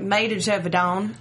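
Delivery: slow Southern drawl on a French name; laughing Alabama drawl; Alabama accent. Shown as a demonstration. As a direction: Alabama twang, drawn out. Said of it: "I'm from Alabama".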